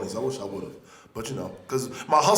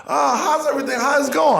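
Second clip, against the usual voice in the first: higher, light friendly asking; polite woman comedian; 10 semitones higher, 4 dB louder than usual. Retold or imitated. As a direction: ask sweetly, pitched up. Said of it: "was like".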